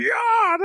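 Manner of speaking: high mock vocal growl; imitated singing growl. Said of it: "he was giving the growls".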